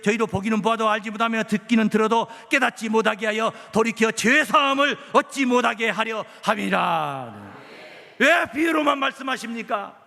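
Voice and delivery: loud, insistent pulpit delivery; forceful preaching. Acted. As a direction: drive each phrase home to the congregation. Declaims scripture and preaches on it.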